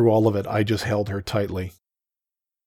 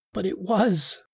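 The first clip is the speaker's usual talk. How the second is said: higher Taki voice, pressing the point; insisting; 11 semitones higher, slower than usual. Acted. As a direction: insist she is to blame. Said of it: "she insisted".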